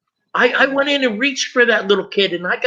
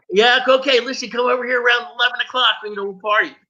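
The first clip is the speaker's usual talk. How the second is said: higher and fast, a hint of an eager party pal; party buddy invite; 4 semitones higher, faster than usual.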